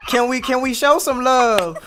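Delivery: high, loud, laughing praise; excited laughing. Real, not acted. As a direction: cheer her on through laughter. Delighted praise for the lyric.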